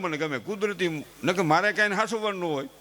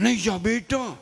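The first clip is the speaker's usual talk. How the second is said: overprotective mother; 3 semitones higher than usual. Retold or imitated. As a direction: fret over the child like a doting mom. (બાળકની ચિંતા કરતી મમ્મીનો ઊંચો, લાડભર્યો અવાજ)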